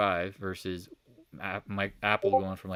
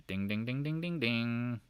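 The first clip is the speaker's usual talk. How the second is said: ding along like a little bell; imitated bell dings; 3 semitones higher, 4 dB quieter, slower than usual. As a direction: run of rising dings. Imitates a bell while marking candles.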